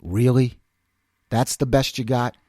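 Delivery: low-pitched, understated challenge; imitated unimpressed principal. Principal to a cursing student, low unimpressed retort. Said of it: "But she goes".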